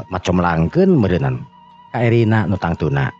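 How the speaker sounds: usual speaking voice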